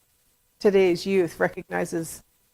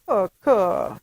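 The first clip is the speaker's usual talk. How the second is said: lightly imitated toddler call, falling away; a touch of baby talk, less insistent; 3 dB louder than usual. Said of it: "and saying".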